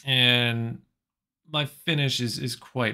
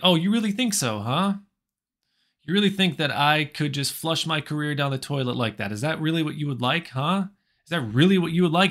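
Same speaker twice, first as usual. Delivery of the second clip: mildly raised, challenging voice; a little louder; 3 semitones higher, 3 dB louder than usual. Retold or imitated. Joe confronts the man about his career, a little louder. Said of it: "he get a little bit louder".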